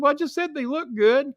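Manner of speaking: very high, pleading mock-fearful voice; scared to death. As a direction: imitate a frightened man defending himself. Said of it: "scared to fucking death".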